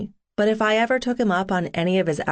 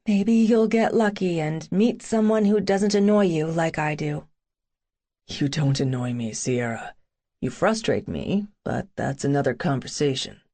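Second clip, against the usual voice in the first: put-on brooding young man; 2 semitones lower than usual. Boone voiced by narrator.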